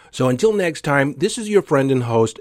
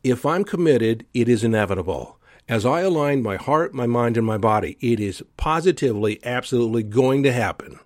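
certain tone. Shown as a demonstration. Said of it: "you want the tonality to be behind it".

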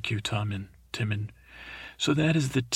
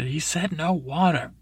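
raised pitch, firm retold rebuke; stern mother; 5 semitones higher than usual. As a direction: put your foot down as the mother. Mother overrules king about water.

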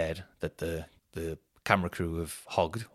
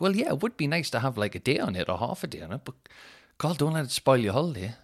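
lightly higher, patient wife; a touch of wife calming him down; imitating his wife's soothing advice; mock wife; 5 semitones higher than usual. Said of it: "she was like".

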